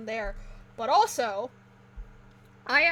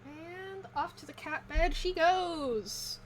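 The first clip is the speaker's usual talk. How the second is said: preschool teacher; 5 semitones higher, slower than usual. Acted. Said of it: "I sound like a preschool teacher".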